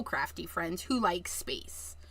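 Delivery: breathy confidential whisper; whispered aside. Real, not acted. Crafter whispering an aside to her viewers about friends. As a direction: lean in and whisper it like a secret.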